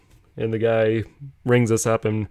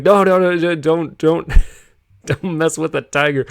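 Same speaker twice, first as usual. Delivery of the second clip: high, loud urgent no no no; alarmed loud stop; 6 semitones higher, 6 dB louder than usual. Retold or imitated. Aunt stops nephew taunting the tiger, alarmed high shout. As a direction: hurry to stop him, half laughing.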